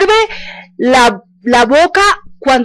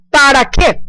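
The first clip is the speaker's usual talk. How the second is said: ordinary talk, nothing marked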